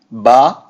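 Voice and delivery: slow separate syllable "Ba"; over enunciating. Shown as a demonstration. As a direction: split the name, say "Ba" alone slowly. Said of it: "I'll say slowly".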